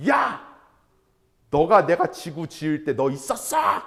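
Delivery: God scolding. Retold or imitated. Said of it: "오히려 막 혼내요".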